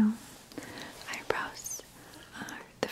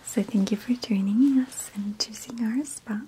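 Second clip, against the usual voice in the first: hushed, unvoiced spa attendant whisper; soft spa whisper. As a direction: whisper like a pampering spa host. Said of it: "Why is she whispering?".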